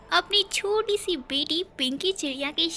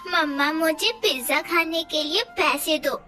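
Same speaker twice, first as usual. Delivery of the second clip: put-on whiny child; 3 semitones higher than usual. Child begging for pizza.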